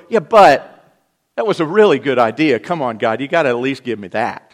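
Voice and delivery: hammed-up complaining David; mock whining David. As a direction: bargain with God. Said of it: "You didn't hear David go".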